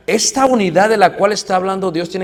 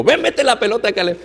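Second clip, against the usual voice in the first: higher, eager mock coaching call; competitive dad; 5 semitones higher than usual. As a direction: urge the kid on like a pushy sports dad. Competitive father shouting retold.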